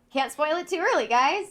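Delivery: laughing, high and loud. Real, not acted. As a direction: laugh through the words. Laughing at cut-off dialogue.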